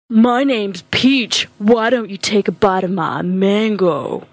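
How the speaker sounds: lightly sultry come-on. Acted. Sultry worker Peach.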